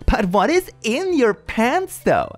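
high, slow, taunting put-on voice; mocking bully voice. Teen reads a bully's taunt, high mocking voice. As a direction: sneer it like the school bully.

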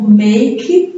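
slow, separate MAKE before UP; split word. Shown as a demonstration. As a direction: MAKE drawn out on its own. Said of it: "Tem uma diferença dela pro".

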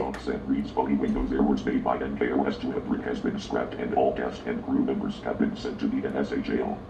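low, stern announcer voice; deep menacing voice. Acted. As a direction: boom it out low like an authority. Announces that the show is shut down.

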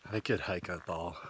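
talking round a lollipop; words muffled by a lollipop in the mouth; sucking a lollipop. Real, not acted. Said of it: "can't talk with my lollipop".

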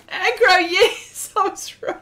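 high, loud, laughing cry of triumph; triumphant laugh. Real, not acted. Viewer recalls a kids' show, she laughs in triumph. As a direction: crow with delight at getting it right. Remembering the show's name.

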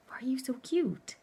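high, sing-song cooing question. Real, not acted. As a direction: coo it up high at the dog. Cooing over her dog.

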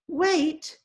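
high, small voice giving a command; a tiny voice snapping an order; a little old lady behind the door orders them to wait. A narrator's reading. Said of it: "a tiny voice ordered".

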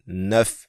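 neuf with the N run into the vowel, nef; French teacher modelling neuf; liaison neuf. Shown as a demonstration. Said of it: "Liaison tức là chữ N mình đọc chung với cái chữ O".

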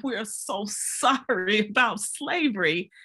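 slow, mildly hammed-up sorrow; drawn-out mock lament with a touch of pity; forlorn apology. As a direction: imitate a woman apologizing mournfully. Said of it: "she came to me all forlorn".

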